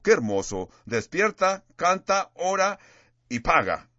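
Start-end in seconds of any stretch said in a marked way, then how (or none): 0.9-2.8 rousing call. Acted. Preacher repeating the slogan.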